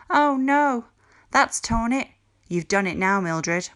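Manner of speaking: voz aguda y alta de alarma; alarmed cry. A narrator's reading. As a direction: grita asustada entre la multitud. Crowd of girls crying out.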